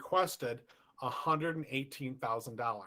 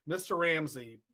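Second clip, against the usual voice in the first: reading the note, slightly raised pitch; shaky ransom note reading; 3 semitones higher than usual. Retold or imitated. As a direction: read it out like a threatening letter. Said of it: "the ransom note said".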